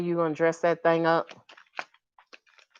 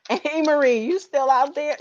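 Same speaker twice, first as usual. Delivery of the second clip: laughing call out; 5 semitones higher, 5 dB louder than usual. Real, not acted. Calling out to viewer laughing.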